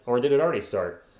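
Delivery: hoarse, scratchy throat; talking through a hoarse throat. Real, not acted. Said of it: "Pardon my hoarse voice".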